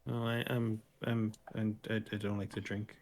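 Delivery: very shy. Acted. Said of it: "very shy".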